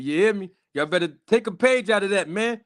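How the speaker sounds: a lightly voiced crooner hyping up the guys; put-on singer voice. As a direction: pitch up and sell it like a showman. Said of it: "got my I'll Be Sure voice on me".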